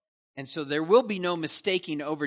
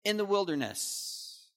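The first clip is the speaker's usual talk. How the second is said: demanding; 3 semitones higher, 4 dB louder than usual. Retold or imitated. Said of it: "just a demand".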